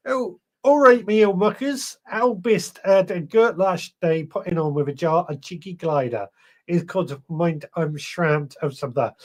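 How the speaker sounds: lightly put-on Bristolian, lively at the start; bad Bristolian accent. Host reading out a viewer's dialect message, awful Bristolian accent. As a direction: have a clumsy go at a Bristolian accent. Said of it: "an awful impression of a Bristolian accent".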